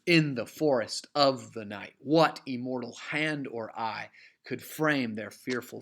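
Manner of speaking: falling beat, "IN the FORest OF the NIGHT"; measured verse beat driving through "forest of the night"; emphatic trochaic meter. Shown as a demonstration. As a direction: stress the first of each pair, "WHAT imMORtal HAND". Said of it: "much more emphatic meter".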